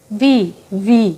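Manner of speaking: ভি drawn out very slowly; slow letter sound. Shown as a demonstration. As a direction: stretch ভি for the child. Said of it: "উচ্চারণ কিরম হবে". (ধীরে টেনে ভি)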